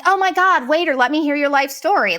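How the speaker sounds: high, gushing fake-friendly voice; mock gushing. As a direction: overdo the friendliness to mock them. Mimics overly friendly couple.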